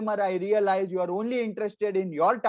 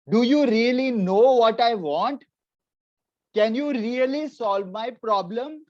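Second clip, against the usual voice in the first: demanding customer; 4 semitones higher, 5 dB louder than usual. Retold or imitated. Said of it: "All he wants to know is".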